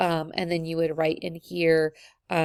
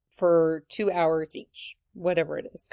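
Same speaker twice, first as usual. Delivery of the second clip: hiccuping mid sentence; hiccups. Real, not acted. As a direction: talk through hiccups. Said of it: "I got the hiccups".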